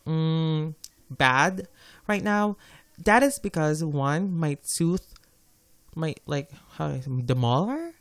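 gargly, muffled speech through braces elastics. Real, not acted. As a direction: talk around a sore tooth and elastics. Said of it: "kind of muffled or gargly".

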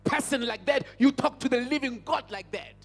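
mildly indignant rebuke, a little forceful; retold anger. Preacher recalling his anger at relatives talking to the grave, retold indignation. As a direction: scold with contained anger. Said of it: "I'm getting angry in the inside".

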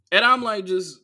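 ordinary talk, nothing marked

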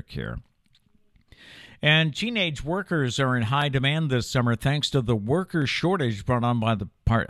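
steady broadcast anchor read; news read. Acted. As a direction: read the headlines like a morning anchor. Anchor reads news headlines.

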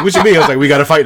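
mock indignant challenge. Remy challenged about the brother, indignant. Retold confrontation before the fight.

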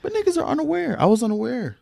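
high, excited protest; excited exclaim. Real, not acted. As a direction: pitch it way up in protest. Exclaiming he was unaware.

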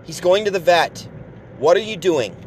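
mock girlfriend scolding him; upset girlfriend. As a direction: imitate the girlfriend nagging. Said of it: "She was like".

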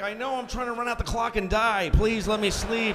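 comic desperate whine; pleading father. Retold or imitated. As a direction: beg for sleep, dragging out the end. Weary father begging children.

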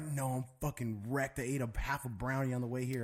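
slurring. Retold or imitated. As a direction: slur it lazily, imitating a stoned buddy. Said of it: "He's, like, slurring".

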